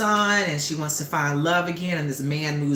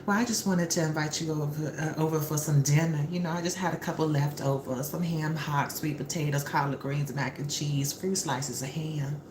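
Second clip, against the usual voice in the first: softer, listing the dishes sweetly; a hint of a nervous hostess; lightly voiced shy invitation; 5 dB quieter than usual. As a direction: coax him over with the menu. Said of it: "she says".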